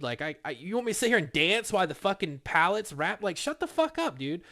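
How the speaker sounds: heated comeback that climbs up high; imagined comeback. Retold or imitated. Worker's unspoken rant at his nagging coworker, rising indignant pitch. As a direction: let the rant rise to an indignant peak. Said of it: "I didn't say any of this".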